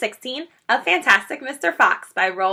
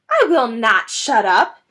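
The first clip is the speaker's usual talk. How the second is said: defiant shriek; 6 dB louder than usual. Acted. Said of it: "shrieked Rat".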